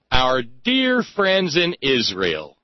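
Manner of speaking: slow, drawn-out sarcastic "dear friends"; dripping irony, said slowly. Real, not acted. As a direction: lean on "dear" with slow mock affection. Sarcastic jab at Israel.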